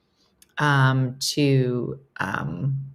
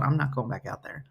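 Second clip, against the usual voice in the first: imagined comedian; 4 semitones lower, 7 dB quieter than usual. Retold or imitated. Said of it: "just going".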